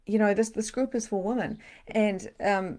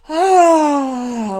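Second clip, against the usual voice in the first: loud high cathartic ah; release cry; 9 semitones higher, 16 dB louder than usual. Real, not acted. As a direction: let it burst out.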